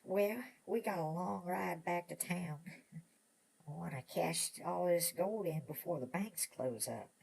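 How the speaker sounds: put-on folksy old miner voice; dreamy old gold miner; old prospector.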